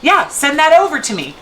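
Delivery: "Ooh" jumps up high, then easygoing; casual coworker offering to take it on; breezy helpful reply. Shown as a demonstration. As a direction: toss it off lightly, no blame anywhere. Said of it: "We just say".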